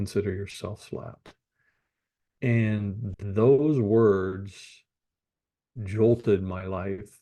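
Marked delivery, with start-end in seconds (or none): 0.0-1.4 very gentle, hushed, whispered grandmotherly voice. Retelling grandmother's reply to a joking remark, imitating grandmother's very gentle voice. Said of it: "in a very gentle voice".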